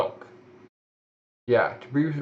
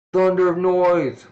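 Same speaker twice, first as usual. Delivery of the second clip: slow, higher, louder attack yell; battle shout; 7 semitones higher, 6 dB louder, slower than usual. Acted. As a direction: roar the attack name.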